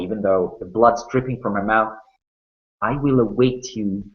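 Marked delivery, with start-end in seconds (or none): 2.8-4.0 quite calmly. Acted. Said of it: "quite calmly".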